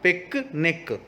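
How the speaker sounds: पिकनिक with both c as hard k, falling; model pronunciation. Shown as a demonstration. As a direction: say पिकनिक clearly, pik-nik. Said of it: "pronounce करेंगे के की तरह". (पिकनिक सही उच्चारण में)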